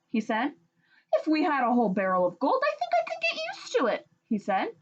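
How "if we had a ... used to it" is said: tempted. Acted. Husband tempted.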